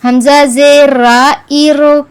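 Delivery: light ra after kasra; thin r. Shown as a demonstration. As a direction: say را after zer light and thin, not rounded. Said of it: "اس رو کو باریک پڑھیں گے".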